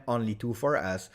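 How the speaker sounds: ordinary delivery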